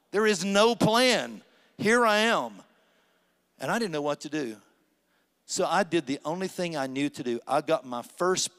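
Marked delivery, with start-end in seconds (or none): 0.1-2.6 higher and louder, slowed for weight; slow, rising sermon cry; preaching build. Acted. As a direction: lean in hard on the loss. Preacher climaxing about lost plan.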